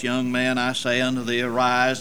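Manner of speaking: low, soft, calm command; normal calm voice. Shown as a demonstration. Jesus to the dead young man, low calm quiet command. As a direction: say it quietly, no drama. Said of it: "in a normal, calm voice".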